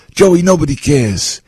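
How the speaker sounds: slow, high quote of a tough mentor; movie mobster line. Retold or imitated. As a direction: deliver it like the Bronx Tale line, slowly. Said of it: "Chaz said that in the Bronx Tale".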